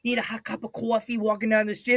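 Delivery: New York "cwawfee" drawn from the street; New York accent. Shown as a demonstration. Showing a British friend how locals talk, New York accent. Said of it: "you never heard the people go".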